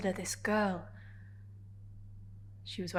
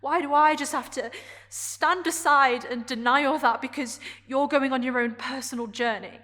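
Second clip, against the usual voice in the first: raised voice, higher and insistent; impassioned protest; 6 dB louder than usual. Acted. Character protesting to Adrian that she can't change, impassioned. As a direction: plead your case with mounting frustration.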